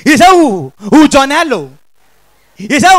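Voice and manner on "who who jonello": comic stammerer blurting his way to a word; hooting false starts, then the word breaks free; stammering. Acted. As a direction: act out a chronic stammer. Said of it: "The first stammerer".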